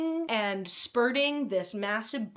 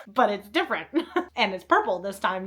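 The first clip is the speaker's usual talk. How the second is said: laughing; 6 dB louder than usual. Real, not acted. Laughs at similar titles.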